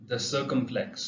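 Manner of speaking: the circumflex said very slowly; slow naming. Shown as a demonstration. Teacher names the mark, slowly. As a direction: drag out the circumflex. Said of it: "third accent mark".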